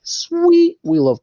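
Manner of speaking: a sudden squeaky high "sweet"; excited. Real, not acted. Cheering the car chase scene, in a high excited yelp. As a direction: burst out with delight.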